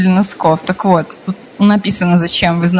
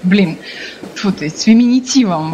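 stumbling over the word; tongue tripping, restarting the word; tongue-tied. Real, not acted. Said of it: "язык заплетается на этом слове".

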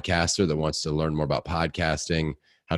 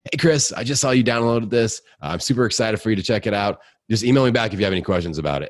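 higher, louder, excited personal message; upbeat video greeting; 5 semitones higher, 5 dB louder than usual. Retold or imitated. Host messaging someone who downloaded his course, upbeat and excited. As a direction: greet them brightly, quick by the end. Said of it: "send them a video message going".

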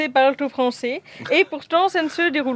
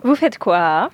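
giggly prank whisper; 3 semitones lower, 4 dB louder, slower than usual. Acted. Boss catches them chatting.

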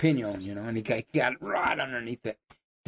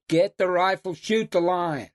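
retold anger; 4 semitones higher, slower than usual. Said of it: "I was mad".

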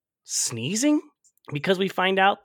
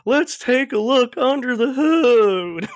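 higher, louder, slow Southern mechanic drawl; 7 semitones higher, 6 dB louder, slower than usual. Retold or imitated. Cat turns into a mechanic, hammy Southern accent. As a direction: play a good ol' Southern grease monkey. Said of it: "a Southern mechanic".

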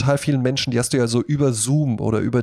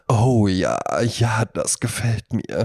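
lower, slow mock-sultry breathing; phone sex moan; 3 semitones lower, slower than usual. Ironing mother fakes sultry phone talk, slow and lower. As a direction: ham up a sultry hotline voice. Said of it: "dabei sagt die halt eben so".

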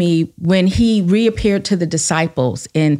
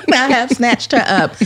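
repeated through a laugh; 4 semitones higher than usual. Real, not acted. Mother confessing she grabbed her daughter, laughing. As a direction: laugh as you admit it.

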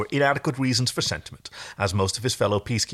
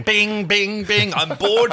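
put-on bored whiny kid; 11 semitones higher, 4 dB louder, much slower than usual. Bored kid whacking game mallet.

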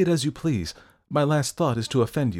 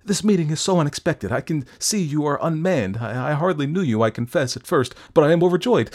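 high, loud, stammering overjoyed patter; flustered effusiveness; 7 semitones higher, 6 dB louder than usual. A narrator's reading. Doctor greeting Fettes while making excuses, flustered effusion. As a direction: babble politely while trying to escape.

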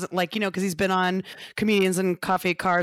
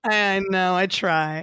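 put-on giddy party girl; much slower than usual. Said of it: "you really tried".

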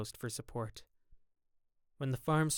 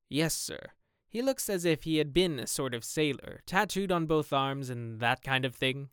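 gamekeeper voice; 3 semitones higher than usual. Acted. Gamekeeper describes the dead man.

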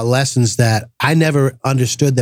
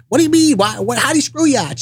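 high, puzzled voice, mock disbelief; imitating a confused guest asking; baffled high question; 12 semitones higher than usual. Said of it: "Like, like".

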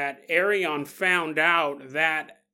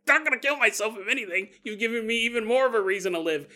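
mock fury; 4 semitones higher, faster than usual. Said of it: "she was furious".

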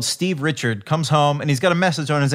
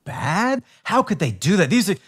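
goody-goody mock; 3 semitones higher than usual. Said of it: "kind of a goody-goody move".

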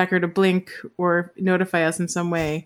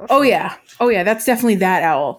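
mildly imitated certainty; confident. Recounting Nick's reaction to the owl's name, mildly confident. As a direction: retell it as someone quite sure of himself. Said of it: "he was like very confident".

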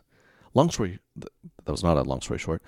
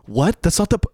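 high, loud, baffled protest; incredulous, cutting yourself off; exasperated disbelief; 12 semitones higher, 6 dB louder than usual. Acted. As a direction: sputter in comic outrage. Acted disbelief at useless solution.

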